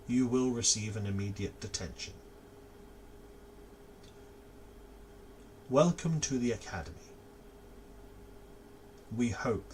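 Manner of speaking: put-on an old door speaking kindly; old woman door voice. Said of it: "it says".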